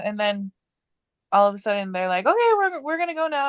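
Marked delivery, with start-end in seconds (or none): 2.3-3.5 much higher lilting goodbye; high mock relative voice. Imitating her aunt saying they are leaving, high and lilting. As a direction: sing it up high like a polite relative.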